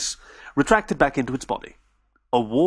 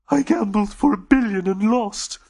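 high, slow hopeless alien voice; Dodo defeated; 8 semitones higher than usual. Acted. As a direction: sound utterly beaten.

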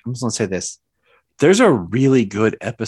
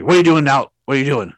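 angry; 3 semitones higher, 4 dB louder, much faster than usual. Retold or imitated. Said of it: "Chris is, like, angry".

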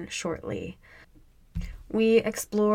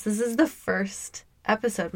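voice cracking. Real, not acted. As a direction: voice breaks mid-sentence. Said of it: "My voice just cracked".

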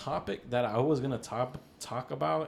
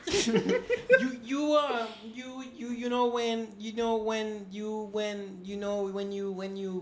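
stoner bro voice; 10 semitones higher, 6 dB louder than usual. Pretend. High stoner voice continues.

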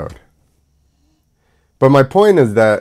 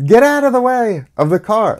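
mock road rage; 12 semitones higher than usual. Ranting at pedestrians.

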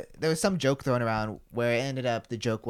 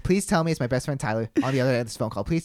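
high, louder imitation of desperate begging; mock-beg in rising, urgent bursts; retold panicky plea; frantic pleading; 4 semitones higher, 5 dB louder than usual. Retells friend's frantic pleading.

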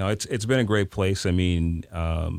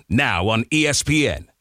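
lightly voiced sports promo read; a hint of an ESPN announcer; 3 semitones higher than usual. Shown as a demonstration. Coach demoing an ESPN promo, a light announcer read. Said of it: "that's just a voice".

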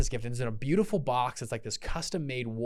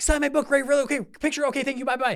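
high, breathless fan gush; mock a starstruck fan rushing the celebrity; gushing fanboy; 13 semitones higher, 6 dB louder than usual. Speaker mocks fans mobbing Ray Dalio, in a high gushing voice. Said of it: "people were mobbing him".

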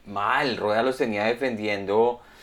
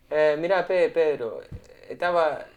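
Peruvian accent attempt; 2 semitones higher than usual. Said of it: "pero en acento peruano".

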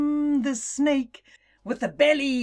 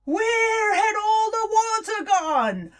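surprised; 10 semitones higher, 4 dB louder than usual. Acted. Animals find lake empty.

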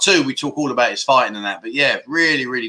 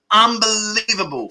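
drawn-out exasperation; 6 semitones higher, slower than usual. Real, not acted. Exasperated at bad suggestions.

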